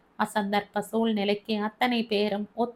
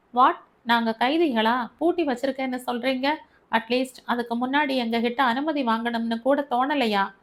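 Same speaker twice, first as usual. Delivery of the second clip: a hot, rushed protest, a sharp burst on the first word; angry and fast; 2 semitones higher than usual. Acted. Locked-in passenger snapping at the control room, angry and fast. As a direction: demand answers, speeding up in outrage. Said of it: "அவன் குரலில் கோபத்தையும் வேகத்தையும் ஏற்றினான்".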